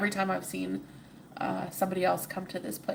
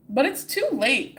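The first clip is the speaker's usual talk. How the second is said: louder, anguished protest; cried out in despair; 6 semitones higher, 8 dB louder than usual. Acted. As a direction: cry it out, too late now. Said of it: "cried Ordinary".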